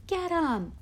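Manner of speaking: high, loud attacking scream. A narrator's reading. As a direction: scream it to set the pack on them. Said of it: "someone else screamed".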